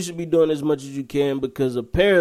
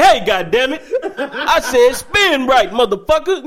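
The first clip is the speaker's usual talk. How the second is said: loud, high mock-furious yell; hammed-up angry star impression, slow and loud; a singer; 11 semitones higher, 7 dB louder, slower than usual. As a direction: blow up at a dancer in imitation, drawing it out. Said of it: "when he get mad for real".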